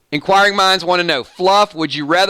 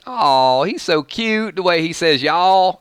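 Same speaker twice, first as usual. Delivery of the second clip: mock gushing over someone cute, pitched up partway; cooing admirer; slower than usual. People fawning over a Southern accent, mock cooing. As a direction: imitate a fawning fan, drawing out the end. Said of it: "they make you say words over and over again".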